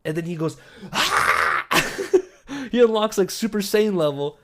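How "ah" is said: imitated power-up yell; mock angry roar. Neighbor about to throw fists, imitated angry yell. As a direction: let out a mock Super Saiyan rage cry. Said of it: "gets really fucking angry".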